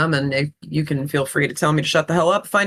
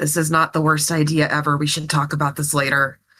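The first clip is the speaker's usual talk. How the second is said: whispering close to the ear; 3 semitones lower than usual. Voicing a character who leans to a companion's ear: whisper in someone's ear. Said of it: "she's gonna kinda whisper in her ear".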